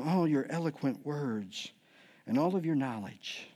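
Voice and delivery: slow, low, soft mock admiration; subtle sarcasm. Paul flattering the Corinthian church, slyly sarcastic. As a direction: flatter them slowly with quiet sarcasm. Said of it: "he's really subtly beginning to say".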